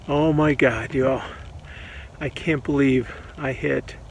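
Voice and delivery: lightly put-on Texas accent. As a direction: say it like a Texan, just a hint. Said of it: "in my best Texas ac-, accent".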